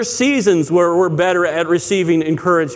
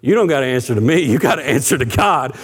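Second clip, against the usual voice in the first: lower-pitched, jokingly stern admonishment; joking mock warning; 5 semitones lower than usual. Pastor joking with a man who swore, mock-stern. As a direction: play at solemn warning, lightly, in a lowered pitch. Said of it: "just totally joking with the guy".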